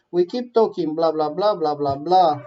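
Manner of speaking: tossed-off, mocking "blah, blah, blah"; dismissive blah blah. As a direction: brush it all off as noise. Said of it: "mimicking empty negotiation talk".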